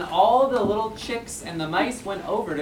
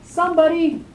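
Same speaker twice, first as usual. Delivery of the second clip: high, urgent call; alarmed little mouse; 8 semitones higher, faster than usual. Acted. Tiny Mouse calls for someone to act, high and urgent.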